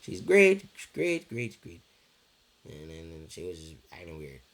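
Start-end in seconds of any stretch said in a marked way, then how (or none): 0.0-1.8 much higher, squeaky mock plea; high pleading to his mom about his girlfriend. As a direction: ham up a desperate plea to mom, pitched way up. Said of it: "try to talk to her and be like".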